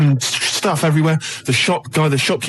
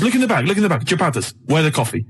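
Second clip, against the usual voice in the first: protesting in a mock Turkish accent; broken English in a badly imitated Turkish accent; Turkish-sounding accent. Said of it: "definitely Turkish".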